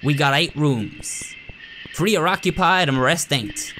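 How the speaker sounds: lightly voiced folksy rural doctor, blunt; a hint of a no-nonsense backwoods doctor; gruff country doctor. Doctor lecturing the new nurse, lightly folksy and blunt.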